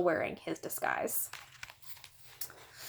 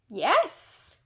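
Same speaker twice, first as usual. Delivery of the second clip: put-on higher, innocent little boy voice; sweet little boy; 7 semitones higher than usual. A narrator's reading. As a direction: play the angel child. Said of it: "his best little boy in the world voice".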